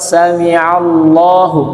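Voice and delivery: sami Allahu with the final hu said clearly and slowly; full ending. Shown as a demonstration. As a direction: finish on hu, don't cut it off. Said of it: "Bukan sami Allah".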